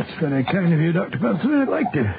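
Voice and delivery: a light, put-on Scottish burr; Scottish accent, a slightly overdone act. Watson in disguise fooling the schoolmaster, light Scottish accent. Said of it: "your Scottish accent is beginning to disappear".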